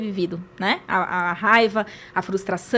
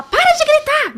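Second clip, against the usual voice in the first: much higher and louder, a mock furious yell; 8 dB louder, slower than usual. Shown as a demonstration. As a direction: scream it at the child, hypocritically. (gritando bem alto, mãe descontrolada)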